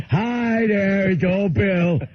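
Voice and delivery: high, drawn-out simple-man voice; Bill. Retold or imitated. Bill meeting his friend's parents, eager high caricature. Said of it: "And they're like".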